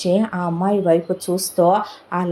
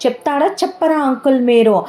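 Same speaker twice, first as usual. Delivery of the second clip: put-on higher, pleading boy's voice that keeps rising; a desperate son firing question after question; distressed son; 5 semitones higher than usual. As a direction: son pressing his uncle about his lost father, higher and urgent. Son demands answer.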